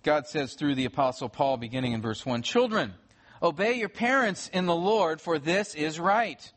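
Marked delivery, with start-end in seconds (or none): 2.4-6.5 measured, raised reading of the verses; formal Bible reading from the pulpit; scripture reading. Acted. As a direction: proclaim the text to the room. Reads scripture to standing congregation.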